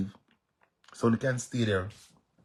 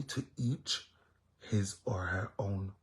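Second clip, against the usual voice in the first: whisper; 8 dB quieter, slower than usual. Real, not acted. Repeating his own motto to viewers in a whisper. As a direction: whisper it, slow and unvoiced.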